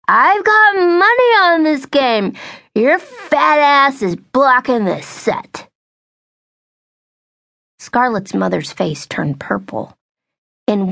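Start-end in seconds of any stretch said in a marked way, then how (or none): 0.1-5.7 much higher, louder, slow irritated bark; a boorish man losing patience; irritated drunk man. Acted. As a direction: drunk boyfriend yells at the mother to move. Drunk man snaps at blocking woman.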